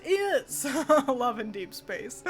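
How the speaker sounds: puzzled, laughing through the words; laughing question. Retold or imitated. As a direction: ask it while cracking up. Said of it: "and I was like".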